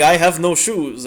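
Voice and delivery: rough, slow mock Czech accent; badly faked Czech accent, drawn out; attempted Czech accent. Gamer quoting a shoeless player, attempted Czech accent. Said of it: "a Czech accent".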